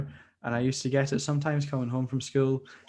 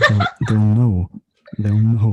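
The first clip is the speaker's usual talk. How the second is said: laughing; 12 dB louder, slower than usual. Real, not acted. Joking that viewers will find him.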